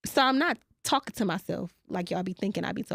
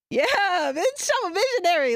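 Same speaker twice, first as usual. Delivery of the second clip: higher Raven voice with a far-off stare; Raven impression; 8 semitones higher, 4 dB louder than usual. Redoing her Raven stare for listeners, higher impression. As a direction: do it like Raven staring into space. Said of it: "let me redo it".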